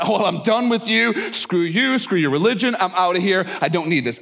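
offended huff. Acted. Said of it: "I would be offended".

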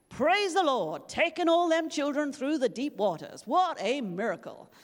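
loud, high African American church shout; African American preacher accent. Retold or imitated. A church member shouts from the back, in an African American accent. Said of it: "Sorry about the accent".

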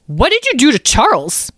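high, loud little accuser; small creature voice. A narrator's reading. Mouse confronts strangers about Charles, alarmed small voice. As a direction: demand it as a worried small creature. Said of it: "said the voice".

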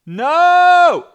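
a sharp, very high shouted no; emphatic no. Real, not acted. Coach rejecting fake scarcity, loud high no. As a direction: slam the idea down.

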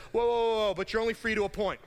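half-hearted imitation of a church reining you in; hammed-up whoa from a preacher mimicking the church; mock alarmed whoa. Church telling you to stop.

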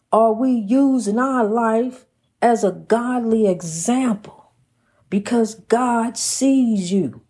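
rhythmic, emphatic preacher delivery; preaching. Real, not acted. Preacher warning listeners they must answer to God, earnest preaching. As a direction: exhort the congregation in swelling, measured phrases.

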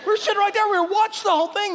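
high, fast, amused retelling of the sheriff; excited retelling. Retold or imitated. Pastor retells the police story to the congregation, high and laughing.

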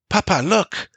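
put-on high child voice, insistent; child's voice. A narrator's reading. Son telling father they will help, high child voice. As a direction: speak up like a brave kid.

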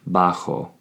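"Bajo", an H sound in place of the J. Shown as a demonstration. Teacher showing Spanish learners the J, "Bajo" said with an H sound. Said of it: "the J makes an H sound".

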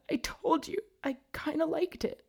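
high, hushed whisper; whispered confession. A narrator's reading. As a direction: breathe it like a secret. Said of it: "she moaned".

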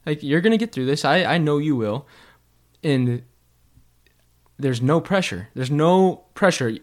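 patient teacher. Retold or imitated. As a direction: reassure a nervous pupil.

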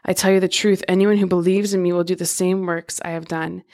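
steady, measured Bible reading; scripture reading. Acted. Podcast host reads the Gospel passages to listeners, measured scripture reading. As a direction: read the verses clearly to listeners.

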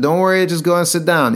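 calm, easygoing reassurance; relaxed. Retold or imitated. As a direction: gently soothe him without any irritation. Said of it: "in this happy, normal, relaxed way".

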